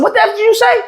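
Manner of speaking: the challenge, now shouted high; escalated shout. Retold or imitated. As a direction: push it up into a yell.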